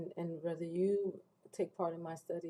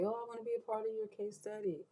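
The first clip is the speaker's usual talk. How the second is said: quick, higher mock comment, lightly voiced; mock commenter; 5 semitones higher, faster than usual. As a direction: toss it off like an eager stranger in the comments. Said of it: "But don't say".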